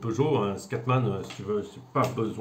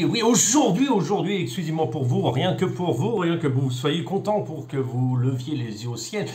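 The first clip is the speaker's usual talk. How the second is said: mock ad pitch; 4 semitones higher, 4 dB louder than usual. Mock advert pitch opening unboxing.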